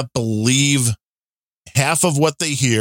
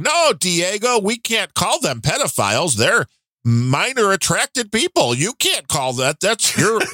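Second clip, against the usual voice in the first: lightly voiced teacher, pitched higher; quoted teacher voice; 5 semitones higher than usual. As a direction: imitate the teacher explaining earnestly. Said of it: "eighteen seconds of audio of her saying".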